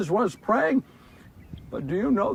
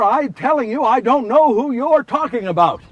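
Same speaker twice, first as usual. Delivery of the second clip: heated denial; 3 semitones higher, 6 dB louder than usual. Acted. Denying the woman, growing heated.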